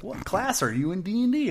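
high-pitched quiz question; mock quiz voice. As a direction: read it like a silly quiz, high up. Voicing an online quiz.

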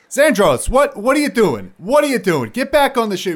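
high, loud worried pleading; Tavar's voice. Acted. Tavar pleading with Zandros, high and loud. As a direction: Tavar begging his friend back aboard. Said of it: "and he's like".

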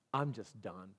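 lightly voiced resigned husband; defeated mumble. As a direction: mutter it like a man who has quit. Client's defeated words retold.

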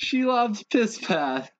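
"Shelob's piss pad" slow, breaking into laughs; laughing through it. Real, not acted. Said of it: "Just say Shelob, damn it".

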